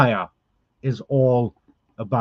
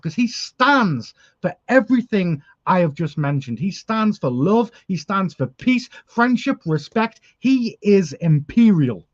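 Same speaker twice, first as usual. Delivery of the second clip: emotional; 5 semitones higher than usual. Real, not acted. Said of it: "I do get emotional about things like this".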